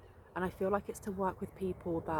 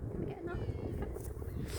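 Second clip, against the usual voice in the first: slow, very high squeaky coaxing; 14 semitones higher, slower than usual. Real, not acted. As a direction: coax the squirrel in a squeak. Coaxing squirrel, repeated line.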